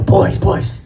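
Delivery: hushed teasing call; whisper. Retold or imitated. Father whispering to his sons in the car. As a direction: lean in and whisper to the boys.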